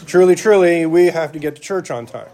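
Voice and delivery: laughing through a mock-solemn line; mock archaic, laughing. Preacher jokes about Bible words, laughing mock nag. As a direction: giggle through a pompous parent line. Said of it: "We don't speak this way".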